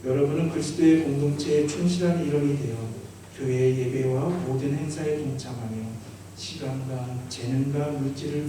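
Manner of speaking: projected ceremonial questioning, rising at the end; officiant's formal liturgical asking; formal vow questions. Acted. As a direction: put the solemn vow to the candidates. Officiant puts the last vow.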